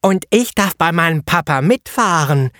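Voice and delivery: put-on high child voice, proud; boy calling out. A narrator's reading. Eddie boasting to the painter, high child voice. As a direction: boast like a five-year-old. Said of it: "rief schließlich Eddie".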